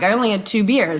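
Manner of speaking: acted-out smug, self-satisfied, proud tone. Voicing the inner voice after having only two beers: imitating a proud inner voice. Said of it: "kind of proud of yourself".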